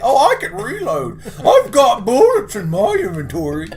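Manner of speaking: high, loud excited cry; excited shout. Real, not acted. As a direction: shout it with sudden glee. Excited in game.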